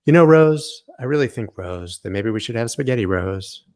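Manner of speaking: sweet hammed-up proposal; mock Jack. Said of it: "Nobody talks like that".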